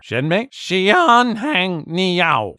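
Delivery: high, slow, forceful mock waiter line; abrupt waiter demand. Teacher role-playing a waiter, abrupt high demand. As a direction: bark the order question suddenly. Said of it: "It was so violent and unexpected".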